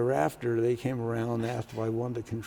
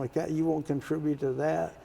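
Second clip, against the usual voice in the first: higher-pitched retold reproach; Ross Doyen's indignant scolding; 5 semitones higher than usual. Senate president scolds new senator over coffee fund, indignant. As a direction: act out an indignant telling-off. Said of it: "he was just ripping me up and down".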